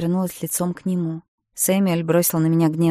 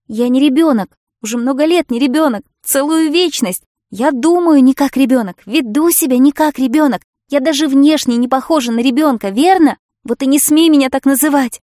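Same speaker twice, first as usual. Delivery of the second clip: loud, high, indignant yelling; furious shout; 7 semitones higher, 10 dB louder than usual. A narrator's reading. Josie yells at Samuel not to call her a child, furious. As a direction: hurl it back at him, stung.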